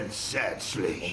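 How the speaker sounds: low, slow, soft dismay; a stunned, quiet lament; aghast. Acted. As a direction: let it sink in, horrified. Hears the gold plan is lost.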